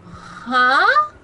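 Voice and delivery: confused huh. Retold or imitated. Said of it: "It didn't make you go".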